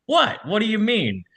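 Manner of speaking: high-pitched mock bewilderment; incredulous matadors. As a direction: squeak it out, acting baffled. Matadors react to bartender's refusal.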